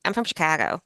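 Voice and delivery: imitating a relative's Chicago accent; quoted line in a Chicago accent; Midwestern mom accent. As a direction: lightly mimic a Chicago mom's Midwestern vowels. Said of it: "that's what your mom sounds like".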